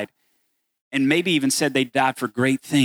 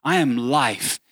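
proclaiming Jesus. Acted. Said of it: "what Jesus says is".

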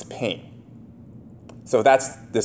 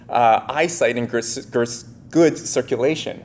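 tongue tripping over words; stumbling slurred speech; slurring. Real, not acted. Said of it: "why I'm slurring today".

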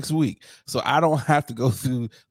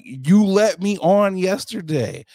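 mock indignation; 5 semitones higher than usual. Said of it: "And I was like".

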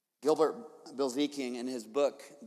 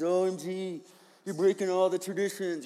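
mocking Pharisees; 3 semitones higher than usual. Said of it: "That's how they talk".

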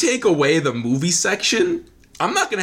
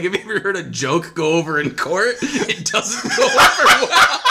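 John Mulaney; 3 semitones higher, 3 dB louder than usual. Retold or imitated. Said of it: "reminding me of the John Mulaney bit where he's like".

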